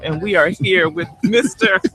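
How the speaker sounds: laughing. Real, not acted. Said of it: "I can't even keep a straight face".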